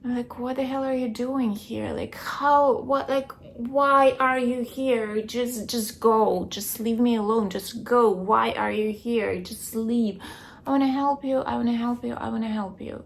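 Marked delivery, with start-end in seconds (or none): 0.4-10.2 retold agitated demand, pushing the intruder away; mildly raised, insistent protest, questions tumbling out; exasperated confrontation. Dreamer telling ex-husband to leave her room, exasperated confrontation. 10.7-13.0 retold pleading on repeat, starting raised and easing off; mock insistent offer of help, tapering away; insistent plea. Ex-husband insisting to the dreamer, insistent plea.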